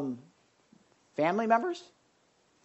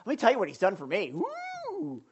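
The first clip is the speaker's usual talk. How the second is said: fast, gushing, ending in a high whoop; excited; 5 semitones higher than usual. Retold or imitated. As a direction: spill it out and cheer at the end. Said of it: "he's just excited".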